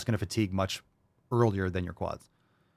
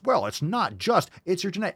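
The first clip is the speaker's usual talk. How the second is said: mocking whiner; 7 semitones higher than usual. Fitness coach mocking an excuse-maker, whiny. Mocking people who blame genetics.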